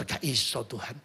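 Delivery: soft, low quoted doctor; mock doctor's verdict. Preacher retells the doctor saying no hope, softly. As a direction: murmur the doctor's bad news.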